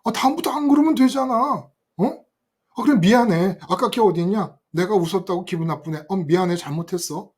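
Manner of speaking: lightly acted whiny begging; imagined cowardly apology to the bullies, lightly acted; servile pleading. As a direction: grovel and apologize to the gang. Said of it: "내가 정말 비굴하게 얘한테".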